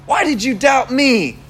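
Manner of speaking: exaggerated accusing question; mock reproach. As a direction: imitate a preacher's accusing Jesus. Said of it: "I don't think it was like that".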